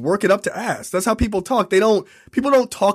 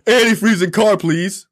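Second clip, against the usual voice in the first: louder, blunt mock caveman; caveman request; 4 dB louder than usual. Host mocking the clumsy pickup line, blunt caveman delivery. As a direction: blurt it like a lightly voiced caveman. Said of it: "okay, she's not a caveman".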